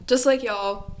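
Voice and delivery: light Southern twang on y'all; a hint of a Southern accent. Real, not acted. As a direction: let a little Southern slip into y'all. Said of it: "that sounded really Southern".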